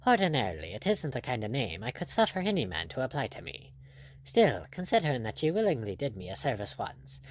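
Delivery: lightly voiced, easygoing buccaneer; a hint of a composed pirate captain; unruffled pirate captain. Blood answering the angry lord, lightly voiced and unruffled.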